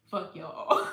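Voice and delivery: loud laughing shout; mock baby defiance. Newborn refusing to come out, shouting with a laugh. Voicing the baby's attitude.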